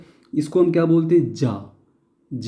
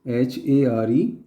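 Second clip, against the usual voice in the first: slow spelling out; much slower than usual. Shown as a demonstration. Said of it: "तो इसको अपन बोलेंगे हेयर".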